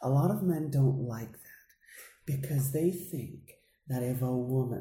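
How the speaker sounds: hushed, quiet, sweet, confiding tone. Retelling what a woman says about men: imitating her quiet, sweet voice. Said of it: "and I try to imitate".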